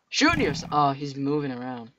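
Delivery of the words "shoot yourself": high, louder yelled taunt; taunting shout. Real, not acted. Gamer baiting a skeleton, high yelled taunt. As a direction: bait the skeleton with a yell.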